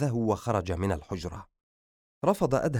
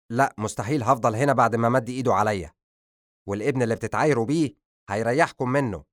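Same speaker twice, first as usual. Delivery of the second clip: louder resentful reply; bitter refusal; 4 dB louder, faster than usual. Acted. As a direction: spit out the refusal.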